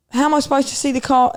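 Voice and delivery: British cashier. Retold or imitated. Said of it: "and she goes".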